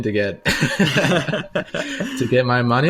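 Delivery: words broken up by laughter, slowed right down; laughing. Real, not acted. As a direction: laugh your way through the end. Laughing while telling.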